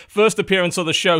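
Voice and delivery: brighter, punchier intro line; livelier retake. Shown as a demonstration. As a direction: sell the word first with energy. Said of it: "try again".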